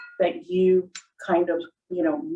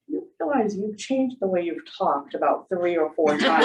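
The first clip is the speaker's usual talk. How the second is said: laughing through a colleague's words; laughing quote. Retold or imitated. Retelling what a colleague overheard, laughing. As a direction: chuckle while retelling the remark.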